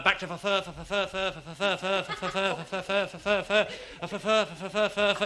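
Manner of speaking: soft repeated stammering. Acted. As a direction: stutter on fur. Stammering punter in bookies.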